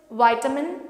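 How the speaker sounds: vitamin with a long i, vye-ta-min; American vitamin, vye-ta-min. Shown as a demonstration. Teacher giving the American vitamin first. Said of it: "the American pronunciation".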